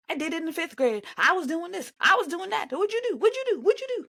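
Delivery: hammed-up boasting that keeps climbing; mocking boast voice. Mimicking veteran boasting.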